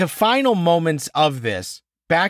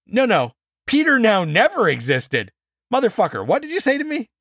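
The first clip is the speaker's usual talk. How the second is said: mock outrage; 5 semitones higher than usual. Real, not acted.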